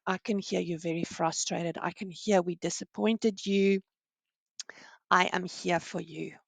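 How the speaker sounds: empathetic reply. Shown as a demonstration. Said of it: "then you can properly empathize and say".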